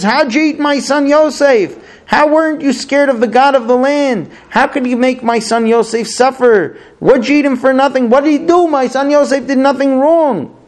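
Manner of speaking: a father's raw accusing lament; bitter anguished cry. Acted. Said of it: "Yaakov yells out with a bitter heart".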